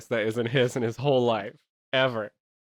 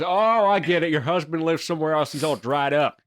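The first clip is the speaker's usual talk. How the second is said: clueless realization; 4 semitones higher, 4 dB louder than usual. Acted. Acts out clueless man realizing.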